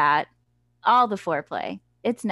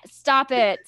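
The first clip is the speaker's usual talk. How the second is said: disgusted; 5 semitones higher, 8 dB louder than usual. Real, not acted. Reacting to crude book words.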